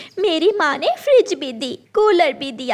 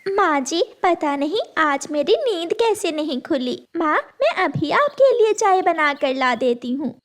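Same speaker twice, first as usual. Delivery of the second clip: a hint of a timid daughter-in-law, apologetic; lightly voiced meek bride, eager to please; meek young bride. Tooni's voice, apologetic.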